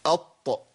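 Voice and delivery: "أط" with a bounced release on the ط; qalqalah bounce. Shown as a demonstration. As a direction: echo the final ط of "أط". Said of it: "لازم أقلقل".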